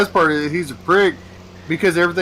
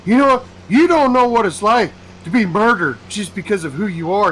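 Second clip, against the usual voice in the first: higher and louder, lifted into an indignant woman's voice; mock her outrage, pitched up; 8 semitones higher, 4 dB louder than usual. Woman at the mic scolding the speaker, higher and indignant. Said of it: "She goes".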